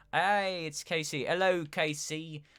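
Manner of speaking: high, loud silly put-on greeting voice; special Casey voice. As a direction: ham up a goofy voice for Casey. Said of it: "We gotta talk like this when we're talking to Casey".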